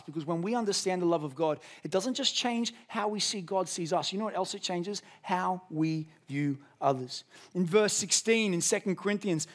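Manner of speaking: ordinary talk, nothing marked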